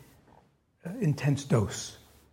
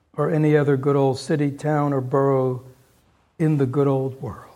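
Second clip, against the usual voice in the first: story narration; 3 dB louder than usual. A narrator's reading. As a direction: savour the happy ending. Solemn reading of the ending.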